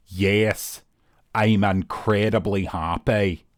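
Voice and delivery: deadpan, flat, very slow Northern Irish drone. Imitating a Northern Irish person saying they are happy: flat Northern Irish accent. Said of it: "how about letting your voice know".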